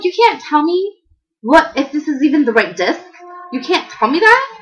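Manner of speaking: can't believe the clerk won't answer; irritated disbelief. Retold or imitated. Customer to Best Buy clerk, incredulous and irritated. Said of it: "Now I'm super irritated".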